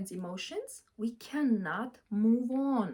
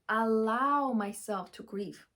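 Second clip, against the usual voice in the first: slow emphatic repeat; slower than usual. Shown as a demonstration. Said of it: "repeats slowly".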